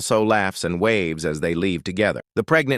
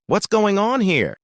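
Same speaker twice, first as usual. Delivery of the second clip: high, slow, drawn-out question; questioning surprise; 12 semitones higher than usual. A narrator's reading. Second woman entering the room on the couple, mildly surprised. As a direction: ask it with pitch well up, stretched out.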